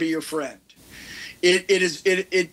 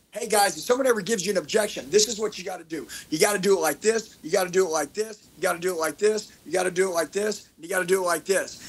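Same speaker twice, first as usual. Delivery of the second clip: same pitch as for the clip, with quicker bursts; punchier take; faster than usual. Shown as a demonstration. Coach showing the more entertaining version of the clip. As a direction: say it again with more punch and energy. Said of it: "Or what if it was like this?".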